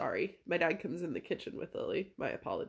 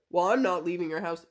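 louder, defiant comeback in imitation; retold stubborn refusal; 4 semitones lower, 6 dB louder than usual. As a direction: mimic an obstinate father digging in. Retold standoff, dad refusing to leave.

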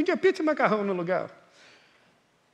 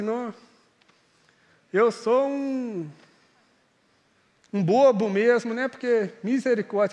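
mock regret; 3 semitones lower than usual. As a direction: mutter it like a man ashamed of himself. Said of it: "Tipo assim".

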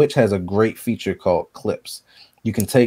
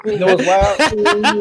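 high, slow, cool rapper delivery; 12 semitones higher, 4 dB louder, much slower than usual. Shown as a demonstration. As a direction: drawl it out like a rapper. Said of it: "That's my rapper voice".

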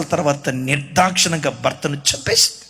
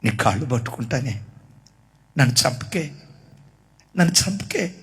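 begging for his life; 7 semitones lower, 6 dB quieter than usual. Retold or imitated. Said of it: "భార్య కాళ్ళు పట్టుకుని అన్నాడట".

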